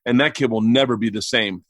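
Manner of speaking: low, grave warning; dad's voice. Retold or imitated. Dad closing the folder of pictures, imitated low warning. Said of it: "he would just close the folder and go".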